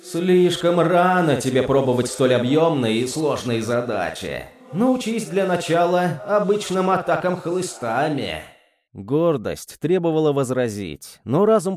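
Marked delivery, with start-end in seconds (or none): 0.0-8.4 scolding demon voice. Acted.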